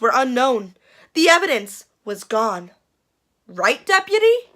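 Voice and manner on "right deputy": sly question. Acted. Conspiratorial question to deputy.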